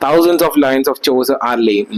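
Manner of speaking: reading each word out very slowly, like dictation; slow textbook reading. Acted. Teacher dictating notes to students, very slowly. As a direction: read the notes out for the class to copy.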